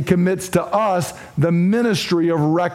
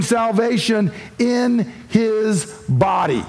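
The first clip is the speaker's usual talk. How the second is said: slow, deliberate stress, with FLESH set apart; measured preacher's emphasis on NOT, FLESH and BODY; emphatic; 3 semitones higher than usual. Acted. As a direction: drive the point home, spacing out "through flesh" and "in his body". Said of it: "say it emphatically so you cannot miss".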